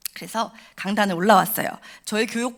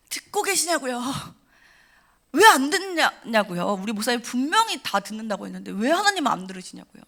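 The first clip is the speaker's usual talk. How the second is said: retold shout at God. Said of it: "막 소리를 쳤어요".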